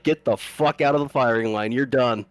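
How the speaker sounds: mild mock sergeant's dressing-down; retold chewing-out. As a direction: imitate a firm, irritated dismissal. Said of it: "gives the lieutenant a rash of shit".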